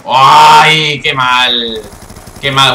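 loud, drawn-out groan of frustration; loud lament. Real, not acted. Player lamenting a bad play, loud frustrated lament. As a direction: wail it out, then repeat the complaint.

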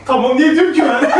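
laughing while being tickled. Real, not acted. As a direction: giggle the words out under tickling. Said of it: "Alışmışım gıdıklamandan".

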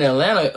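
"Atlanta" with the t's dropped; local pronunciation of Atlanta. Real, not acted. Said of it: "Why are you saying it like that?".

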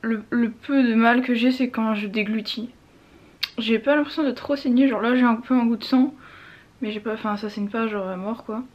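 swollen mouth, talking stiffly; after wisdom teeth. Real, not acted. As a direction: speak through a swollen jaw. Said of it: "J'arrive pas à parler, c'est horrible".

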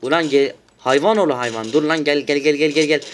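yelling on purpose for the video. Real, not acted. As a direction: bellow at the enemy to come. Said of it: "Bağırıyorum".

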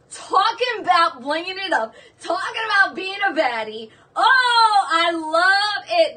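high, loud, near tears with joy; excited squeal. Real, not acted. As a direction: gush over the necklace, almost crying. Overjoyed about the necklace.

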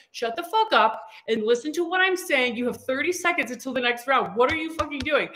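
mock coach yell. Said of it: "Chris is in there, like, yelling".

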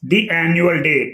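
"The" said "dee" before annual; slow demo, long ee in "The". Shown as a demonstration. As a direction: say "dee annual day" carefully. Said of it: "the అని పలకాలి".

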